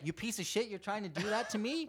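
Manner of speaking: mock indignant challenge to an opponent; fired up. Fan voices goalie confronting a player, fired-up imitation. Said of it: "that's just fired up".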